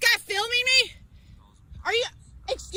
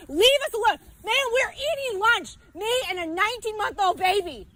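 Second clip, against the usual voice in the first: angry yelling. Real, not acted. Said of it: "You're, you're yelling".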